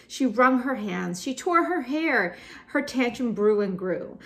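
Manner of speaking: high-pitched, animated verse; dramatic poem narration. A narrator's reading. Teacher narrates a girl's tantrum to students, animated high reading. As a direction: tell the tantrum with mounting drama.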